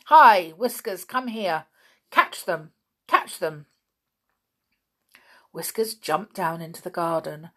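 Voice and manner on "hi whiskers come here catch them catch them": loud witch calling her cat. A narrator's reading. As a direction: yell for the cat to catch them.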